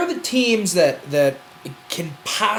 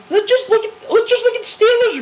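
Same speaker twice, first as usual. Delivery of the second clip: laughing; 14 semitones higher than usual. Real, not acted. Cracking up mid-argument.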